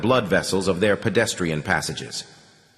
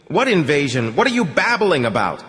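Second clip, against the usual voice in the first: higher, sharp irritated officer; baffled colonel; 5 semitones higher, 3 dB louder than usual. Acted. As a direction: snap back in disbelief.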